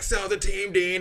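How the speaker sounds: high-pitched mock yell; imitated heckler's call. Retelling a heckler calling to Dean.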